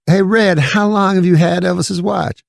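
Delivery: imitated comedian doing a funny voice; Eddie Murphy. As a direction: ask it in a high, put-on comic voice. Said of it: "all of a sudden, he's doing voices".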